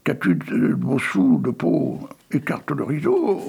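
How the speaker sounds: cri de foule, plus aigu; foule qui crie. Acted. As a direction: exiger comme une foule avide. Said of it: "les voilà qui crient". (la foule crie à la fille, plus aigu)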